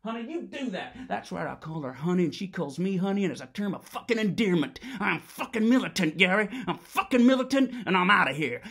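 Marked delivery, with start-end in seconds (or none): 0.0-0.9 laughing. Acted. Mocking wife, laugh heard. 5.0-8.6 very loud, defiant yelling; furious shout. Acted. Shouting climax of phone rant.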